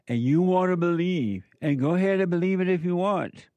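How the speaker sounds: fired-up preacher taunting doubters; heated challenge. Real, not acted. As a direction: throw the dare at them with rising heat. Preacher challenging congregation, rising heat.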